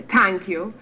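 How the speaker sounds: "Thank you" with TH said as T; dropped TH. Shown as a demonstration. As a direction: say "Thank you" as "Tank you", Jamaican style. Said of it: "we drop T Hs all the time".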